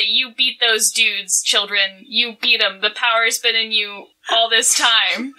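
a hint of a firm coach rallying kids; gym teacher voice. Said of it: "my best gym teacher voice".

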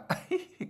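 a high squeaky held-in chuckle; squeaky chuckle demo. Shown as a demonstration. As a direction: chuckle but squeeze it shut. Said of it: "nó gọi là". (tiếng cười nén, cao và rít)

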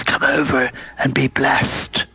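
slow, eerie mock blessing; imitating creepy host. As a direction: intone it slowly like a spooky old man. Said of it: "and he says".

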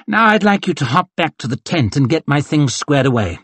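breezy command from a vain colonel; arrogant colonel. Acted. Colonel dismissing his young corporal, lightly haughty.

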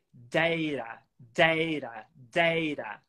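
"data" as DAY-ra, the t a quick tap; tapped T. Shown as a demonstration. Teacher lists ways to say data, tapped t. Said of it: "Agora com o tap".

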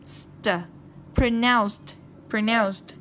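"pronounced" ending in a hissed s plus t. Shown as a demonstration. Teacher showing C-E words plus ED, "pronounced" ending in st. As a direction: let the s sound before the t in "pronounced". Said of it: "khi thêm E D vào chúng ta đọc là".

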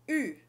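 "U" as French u, "ee" with round lips; "U" like French "rue"; French u sound. Shown as a demonstration. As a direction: front rounded "U" as in "vu". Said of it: "Você percebeu uma diferença nesses dois sons".

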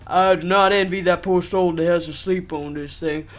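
game text read-out. Acted. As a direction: read the on-screen line out firmly.

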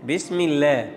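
Bismillah with a thin, light L, no heavy sound; correct Bismillah. Shown as a demonstration. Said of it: "no, Bismillah".

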